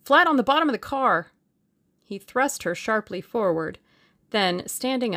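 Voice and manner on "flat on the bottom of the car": loud, high shouted order; raised, hurried warning; urgent cry. A narrator's reading. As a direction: call out a command under fire. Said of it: "cried Julius".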